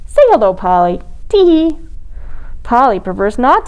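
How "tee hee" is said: high, cheeky tee-hee; giggle. Acted. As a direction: giggle like a naughty chick. Polly giggles.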